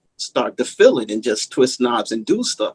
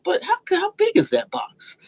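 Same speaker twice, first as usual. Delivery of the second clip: high-pitched baffled wondering; retold puzzlement; 3 dB quieter than usual. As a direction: replay a naive question way up high. Retelling his puzzled thoughts.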